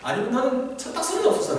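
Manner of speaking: lightly acted sneering older brother; mocking put-down with swinging pitch; dismissive. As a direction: brush off a kid brother's outrage. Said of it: "다윗의 의분을 무시했습니다".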